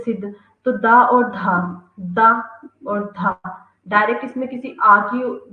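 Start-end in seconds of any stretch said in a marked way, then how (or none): 0.0-3.4 दा and धा drawn out slowly; sounds separated. Shown as a demonstration. Teacher breaking सिद्ध into दा and धा, slowly. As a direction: say दा और धा apart and slow. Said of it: "अपन इसका एग्जांपल दे सकते हैं".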